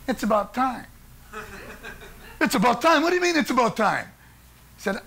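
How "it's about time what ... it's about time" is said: raised, disbelieving echo; incredulous. Retold or imitated. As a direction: repeat it back in shock. Narrator echoes in disbelief.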